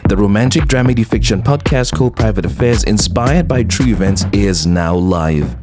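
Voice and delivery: upbeat podcast announcement over music; steady, even host's ad read; promo read. Acted. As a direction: read out a show promo to listeners. Reads podcast promo at the top.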